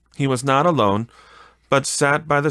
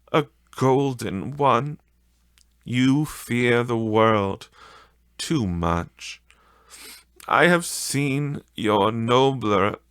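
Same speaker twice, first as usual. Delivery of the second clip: put-on sorrowful young woman; 2 semitones higher, slower than usual. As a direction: let her sorrow show, slow at the end. Young woman voiced in story.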